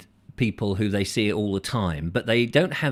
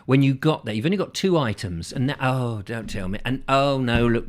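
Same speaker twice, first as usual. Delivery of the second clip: mock grumbling. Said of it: "pleasure about moaning and groaning and grumbling".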